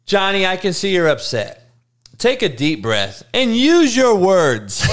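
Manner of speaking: lightly mocked patient parent; gentle modern parent. Parent calming upset Johnny, mock gentle parent. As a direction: coax gently, slowing on the last words. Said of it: "use little Johnny as the parent of now".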